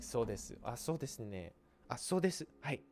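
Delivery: a light take on a polite Japanese phone call with ah, hai and so desu ne; polite phone talk. Acted. Teacher imitating a Japanese person agreeing on the phone. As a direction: chime in politely like on a business call. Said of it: "talking on your phone".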